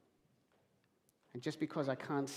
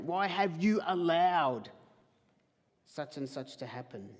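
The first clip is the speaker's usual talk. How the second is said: complaining prayer. Retold or imitated. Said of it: "Have you ever done this?".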